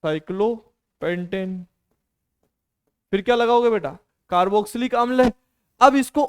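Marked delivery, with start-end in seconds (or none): 0.0-1.7 साइक्लोपेंटेन stretched out slowly, syllable by syllable; slow dictation. Shown as a demonstration. Teacher dictating the compound name to students, slowly. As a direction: spell out साइक्लोपेंटेन slowly so students can write it.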